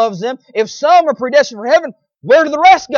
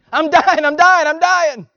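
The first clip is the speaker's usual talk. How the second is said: put-on a touch higher, whiny child's complaint; mock childish whine; 4 semitones higher than usual. Preacher imitating an untrained older child, light mock whine. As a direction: whine like a spoiled older kid. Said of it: "if they get older ... same thing".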